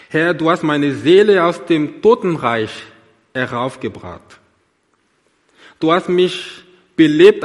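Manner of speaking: measured, solemn reading of a psalm, phrase by phrase; scripture reading. Acted. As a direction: read the psalm like a prayer to the congregation. Reads Psalm 30 aloud.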